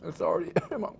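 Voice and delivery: whispering through a burning mouth; coughing, choked whisper from the spice; mouth burning from spicy food. Real, not acted. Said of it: "I need something to get it down".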